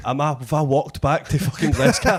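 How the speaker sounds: laughing as he tells it; can barely get it out for laughing; chuckling disbelief, half-laughed; laughing through it. Real, not acted. Laughing at own confusion.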